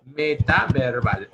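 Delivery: Metaverbal drawn out slowly at normal pitch; slow repeat. Shown as a demonstration. Teacher repeating the term slowly for the class. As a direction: spell Metaverbal out slowly for them.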